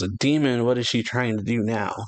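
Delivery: a startled giant warrior yelling about the demon; crew member's alarmed yell. Retold or imitated. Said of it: "one of them yells".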